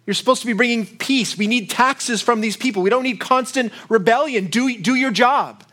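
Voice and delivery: Caesar's envoy scolding Pilate, sharp and stern; sharp words. Retold or imitated. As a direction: dress down Pilate like an annoyed boss. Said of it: "the sharp words that would have been given".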